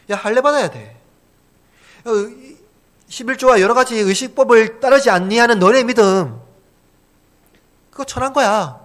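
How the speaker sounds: high-pitched scornful accuser; acted scorn. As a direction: act out a legalist looking down on believers. Acting out Jews scorning believers' faith.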